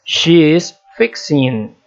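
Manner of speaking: slow, careful classroom model of "She is fixing", every word laid out; teacher modelling "She is fixing" slowly; slow model sentence. Shown as a demonstration. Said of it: "acrescenta-se somente I N G".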